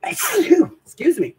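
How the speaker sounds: high, loud sneeze-shaken apology; real sneeze from the pepper, then a high, loud apology; after a sneeze. Real, not acted. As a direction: blurt it out right after sneezing. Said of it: "Y'all gotta sneak 'cause of that pepper".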